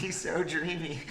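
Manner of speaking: hammed-up dreamy gushing; mock swooning. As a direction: draw it out like a smitten fan, joking. Mock swoon over Southern voice.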